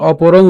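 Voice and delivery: অপরং with an ng ending; anusvara as ng. Shown as a demonstration. Teacher restates the rule, অপরং ending in ng. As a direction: finish অপরং on ng, lips open. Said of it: "অনুস্বারের মতোই হবে".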